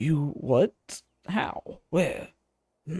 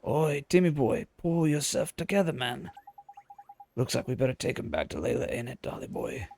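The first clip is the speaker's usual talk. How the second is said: a lower, hearty working man's call; gruff friendly local man; 3 semitones lower than usual. Acted. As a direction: bellow a cheeky greeting, then chat. Same figure scolds cat.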